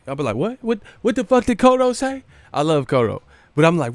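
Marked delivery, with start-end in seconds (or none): 0.4-2.2 baffled yelling. Retold or imitated. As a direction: blurt it out, totally lost. Can't understand mumbling fighter.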